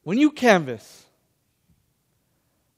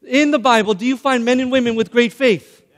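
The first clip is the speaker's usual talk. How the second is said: raised, punchy preacher's question; emphatic repeated question; 3 semitones higher, 3 dB louder than usual. Shown as a demonstration. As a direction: put it to the congregation with more force. Repeats question louder to get response.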